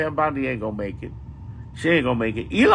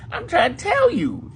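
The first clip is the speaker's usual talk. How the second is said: pleading; 13 semitones higher than usual. Real, not acted. Pleading, voice cracking.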